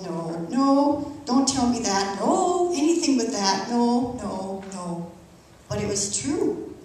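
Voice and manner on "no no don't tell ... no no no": desperate denial. Retold or imitated. Patient reliving the diagnosis, pleading in denial. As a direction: beg the news not to be true.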